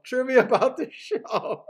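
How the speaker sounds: repeated through a laugh; amused echo of the thought. Real, not acted. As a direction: chuckle the words as you say them. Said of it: "Oh, trivia about the show".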